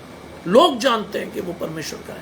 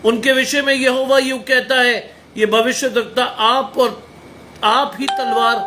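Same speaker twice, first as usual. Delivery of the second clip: scripture proclaimed in a sustained, slightly raised voice; forceful preaching; 3 semitones higher, 4 dB louder than usual. Acted. Preacher reading a warning against false prophets, forceful preaching. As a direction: declaim the verse with conviction.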